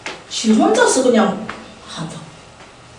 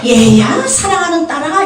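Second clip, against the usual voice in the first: mock-refined Seoul speech, lifting high at the end; refined Seoul accent; 5 semitones higher, 4 dB louder, slower than usual. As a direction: address a beloved daughter in polished Seoul speech. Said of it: "세련된 서울 말로?". (세련된 서울말 흉내)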